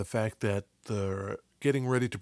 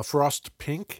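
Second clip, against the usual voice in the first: radio voice; 3 semitones higher than usual. Pretend. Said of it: "say these in a radio voice".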